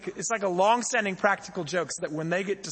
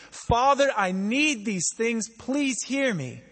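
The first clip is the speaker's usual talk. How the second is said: earnest prayer; 4 semitones higher, 4 dB louder, slower than usual. Pretend. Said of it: "We get to pray to him and say".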